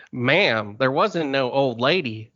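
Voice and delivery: lazy rural Southern twang, lightly done; a hint of a country deputy; country accent. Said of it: "I always do the country accent".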